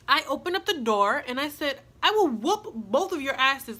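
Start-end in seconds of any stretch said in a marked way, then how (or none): 2.0-3.8 mild, punchy mock threat; retold threat. Threatening both women at the door, mildly heated. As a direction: re-enact a heated warning, a bit louder.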